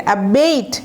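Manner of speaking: অ্যাবেট with a long, drawn "ei" sound. Shown as a demonstration. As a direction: stretch the "ei" in অ্যাবেট. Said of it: "এটাকে একটু এইট এইভাবে টান দিবেন।".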